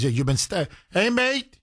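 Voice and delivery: sneering disbelief, pitch jumping up on mate; mocking cop. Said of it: "he says".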